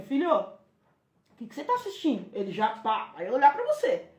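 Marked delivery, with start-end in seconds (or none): 0.0-2.3 gentle question. Shown as a demonstration. Mother entering son's room to connect, gentle ask. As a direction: ask him kindly to open a chat. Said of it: "Você entrou no quarto e falou assim".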